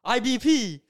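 high, loud hype yell; a teen in a truck hypes up the podcast, cheering wildly; hype shout. Retold or imitated. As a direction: holler it out a truck window like a fan. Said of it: "and he goes".

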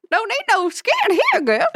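put-on menacing old-timer warning a girl; cackly wheezy old timer. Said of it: "old prospector voice".

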